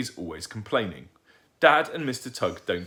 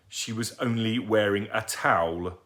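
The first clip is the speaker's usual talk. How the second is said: roared; 2 semitones higher than usual. Acted. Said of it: "roared Mister Tugg".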